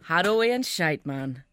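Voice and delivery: failed Geordie sounding Jamaican; Geordie gone Jamaican. Shown as a demonstration. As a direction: attempt Geordie, drift into Jamaican. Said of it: "That was Jamaican".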